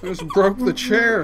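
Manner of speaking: laughing while saying it; words bubbling with laughter. Real, not acted. Chair just broke, laughing.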